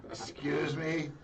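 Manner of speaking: slow, high mock-shocked question; stunned disbelief. Retold reaction to surprise proposal.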